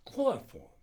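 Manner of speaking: high, loud burst; sudden decision. A narrator's reading. Doctor settling on the anesthetic, sudden and decisive. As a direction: seize on the answer abruptly. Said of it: "he said suddenly".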